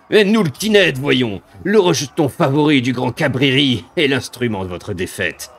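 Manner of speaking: sneering monster voice with cackles; mocking demon. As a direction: taunt them from above.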